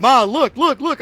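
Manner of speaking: loud, high, insistent calling after mom; retold excited call; excited urging. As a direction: pester mom to look, acted out. Retelling himself chasing his screaming mom.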